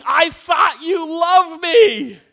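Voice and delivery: slow, drawn-out high shout; screaming child. Retold or imitated. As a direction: wail it out as a betrayed kid at the pool's edge. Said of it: "as I'm screaming".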